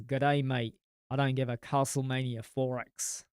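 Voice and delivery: first try at an Australian accent, close to his own voice; a half-hearted Australian accent he rejects right after; weak Australian accent. Shown as a demonstration. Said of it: "No, that sounded more, no".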